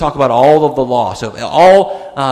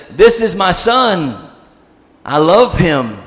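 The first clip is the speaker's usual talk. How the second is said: slow, raised proclamation; booming voice; 3 semitones higher, 3 dB louder, slower than usual. Retold or imitated. God speaking out of the cloud with joy, booming. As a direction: declare it grandly and slowly, with mild boom. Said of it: "maybe it's a booming voice".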